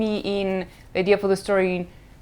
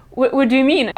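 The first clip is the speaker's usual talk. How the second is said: baffled mom; 5 semitones higher, 3 dB louder, faster than usual. Retold or imitated. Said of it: "She's like".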